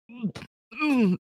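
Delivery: high strangled choking sounds; gagging noises; choking grunts. Acted. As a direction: choke on it, throat closing. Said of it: "like, choking".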